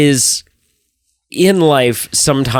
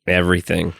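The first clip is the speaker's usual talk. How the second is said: laughing despair. Real, not acted.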